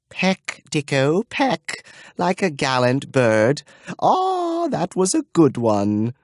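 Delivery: high, coaxing bird-talk; cooing to a bird. Acted. Old dame coaxing her caged tomtit to peck. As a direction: coax the tomtit like a pet. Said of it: "sat at a table, tendering rapeseed".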